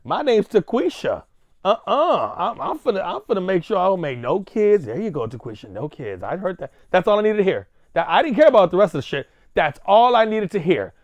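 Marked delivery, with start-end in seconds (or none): 0.0-4.9 lightly voiced girl talking back, defiant; mock young woman. Host voicing Taquisha vowing no kids, mock defiant. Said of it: "young black girl that listens to him".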